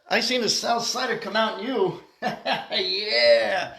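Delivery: chuckling through the words, amused; laughing. Real, not acted. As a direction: laugh it out, delighted he said it. Gleeful laugh at the pope.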